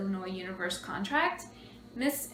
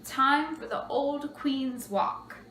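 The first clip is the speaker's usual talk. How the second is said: slow, raised announcement voice; PA announcer; 5 semitones higher, much slower than usual. Acted. Announcer calls the outgoing queen over the PA, drawn-out. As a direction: draw it out like a public announcement. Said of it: "make this announcement over the P A system".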